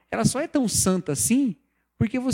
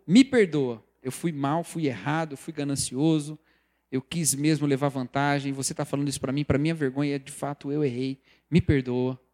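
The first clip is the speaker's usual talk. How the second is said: sincere apology; 6 semitones lower than usual. Shown as a demonstration. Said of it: "Melhor é".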